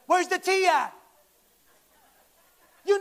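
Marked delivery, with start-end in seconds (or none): 0.0-0.9 lightly voiced loud uncle, calling out; a hint of a brash uncle showing up; louder, mock uncle call-out; awkward uncle. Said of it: "awkward fifty-year-old uncle that shows up".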